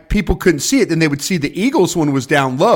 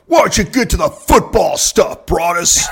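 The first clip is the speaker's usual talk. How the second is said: higher sing-song mock fan; mock fan complaint; 4 semitones higher than usual. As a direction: tease like impatient viewers. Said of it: "the people are like".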